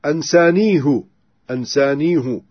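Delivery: "أنسانيه" ending with ansanihu, the ha with damma. Shown as a demonstration. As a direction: round the final "ـه" into hu. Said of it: "ضم الهاء". ("أنسانيهُ" بضم الهاء)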